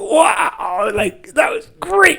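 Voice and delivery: put-on very high, slow, drawn-out, childlike gushing excitement. Imitating a guy who just caught his first wave: imitating an excited beginner. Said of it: "He'll be all excited like a kid".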